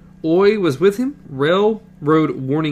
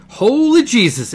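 sudden high cry of awe; stunned outburst at the sight; Holy Jesus, blurted in shock; awed exclamation; 9 semitones higher, 7 dB louder than usual. A narrator's reading. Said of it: "Eddie said softly".

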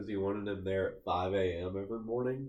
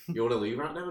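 fast talking; 3 dB louder, faster than usual. Retold or imitated. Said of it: "this is how fast he's talking".

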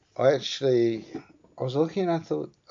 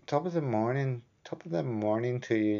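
put-on stock Irish greeting in a higher Irish accent; 5 semitones higher than usual. Warming up the Irish accent for viewers, hammed-up Irish. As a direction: play up a cartoon Irish accent. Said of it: "supposed to be my Irish accent".

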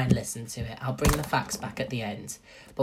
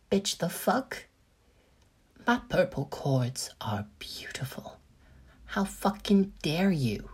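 mock offended sass; 4 semitones higher, slower than usual. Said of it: "I looked in the mirror and went".

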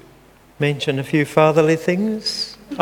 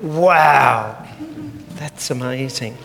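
amazed reader; 2 semitones lower, slower than usual. Retold or imitated. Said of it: "digested and went".

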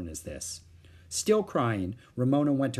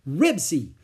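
put-on child's shout; 5 semitones higher, 6 dB louder than usual. A narrator's reading. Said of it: "said Ramona and beat on the door".

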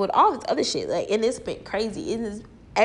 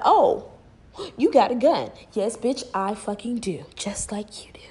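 imitating cop, then defiant reply. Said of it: "it lets them know that".

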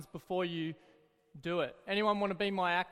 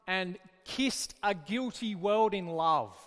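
poem reading. Shown as a demonstration. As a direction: read the line like poetry. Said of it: "Isn't that wonderful poetry?".

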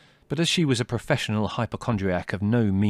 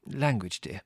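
automatic reproof; 3 dB quieter than usual. Acted. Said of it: "said Mother automatically".

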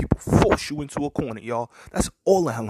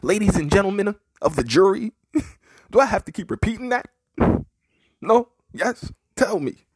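mock jury address; 9 semitones higher, 5 dB louder than usual. Real, not acted. Mock courtroom address, laughing.

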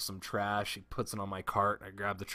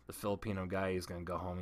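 normal talking voice

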